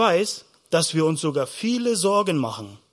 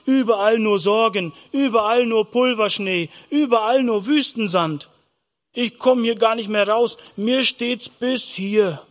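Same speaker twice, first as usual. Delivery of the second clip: higher-pitched, mildly exasperated lament; overwhelmed; 4 semitones higher than usual. Acted. Preacher voices someone drowning in worries for children, overwhelmed. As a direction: pile up the worries, each one higher.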